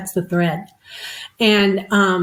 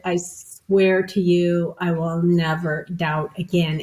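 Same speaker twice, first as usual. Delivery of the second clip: steady undramatic oath; calm sincere vow; 2 semitones lower, slower than usual. Retold or imitated. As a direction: say it plainly and earnestly, no drama. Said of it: "there's no need to be dramatic".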